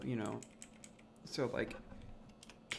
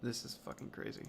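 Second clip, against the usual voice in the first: whispered aside; 7 dB quieter than usual. Real, not acted. Alone, muttering at the complex system.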